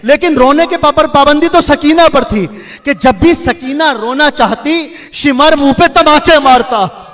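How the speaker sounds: preacher moving mourners to weep; lamenting majlis recitation. Acted. Preacher reciting masaib to the mourners, in a rising mournful chant.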